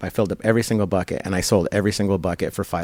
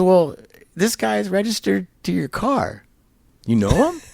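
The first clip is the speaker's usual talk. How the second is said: much higher, urgent calling out; a buddy racing up, higher and excited; excited friend; 11 semitones higher than usual. Retold or imitated. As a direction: call out like you just ran over with news. Friend explaining the registration.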